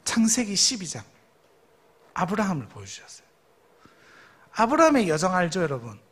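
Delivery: ordinary delivery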